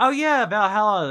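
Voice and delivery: high, loud and drawn out; light up at the name; excited. Real, not acted. Excitedly recognizing a game.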